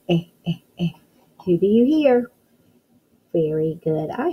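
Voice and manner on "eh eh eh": Eh, eh, eh as a short repeated i sound; teacher sounding out the letter. Shown as a demonstration. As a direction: isolate the vowel. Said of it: "what sound do you hear at the beginning".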